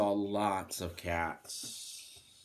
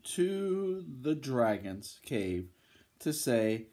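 lively, emphatic bedtime-story reading; storybook voice with punched key words; children's story narration; 2 semitones higher than usual. Acted. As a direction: read to little ones with big swings in tune.

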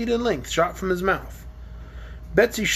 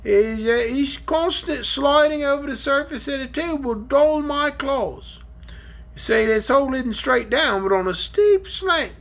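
dragon voice; 5 semitones higher than usual. Acted. Dragon telling the children about his ancestor, lightly voiced. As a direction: play the dragon, grumbling about his grandpa.

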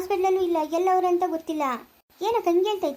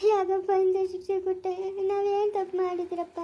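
slow, drawn-out sobbing wail; weeping, words dragged out between sobs; tearful lament; 2 semitones higher than usual. Acted. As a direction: plead with God through sobs. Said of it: "ಅಳ್ತಾ ಇದೀಯ ನೀನ್ ತಿರ್ಗಾ?".

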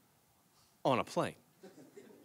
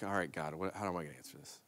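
hushed, much softer quick prayer; under my breath; 7 semitones lower, 13 dB quieter, much faster than usual. Retold or imitated. Pastor prays under his breath before answering, hushed. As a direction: murmur it to God so no one hears. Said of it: "speaking in tongues under my breath".

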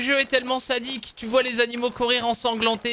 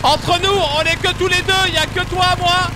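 mock enthusiasm; 7 semitones higher, 4 dB louder than usual. Mock nature-lover enthusiasm.

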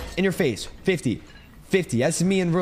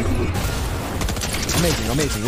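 drawn out; 4 semitones lower, much slower than usual. Pretend. Savoring kill.

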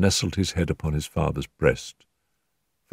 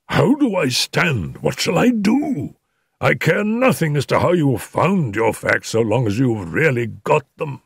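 desperate plea; 7 semitones higher than usual. A narrator's reading. Desperate husband begs the detective for answers, agitated. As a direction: plead in an agitated, raised pitch.

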